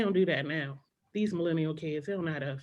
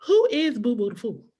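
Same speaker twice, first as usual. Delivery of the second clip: put-on higher, louder, innocent kid asking mom; young kid voice; 5 semitones higher, 5 dB louder than usual. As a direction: sound like a puzzled child asking mom.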